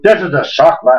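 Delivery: badly faked Irish accent. The Irish drinkers answering over a shot glass, bad Irish accent. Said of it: "That was a bad accent".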